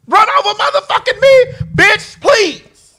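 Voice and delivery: very high, incredulous scoff; scornful dismissal. Real, not acted. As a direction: wave them off in a high, sassy pitch. Scornful dismissal of those crossing her.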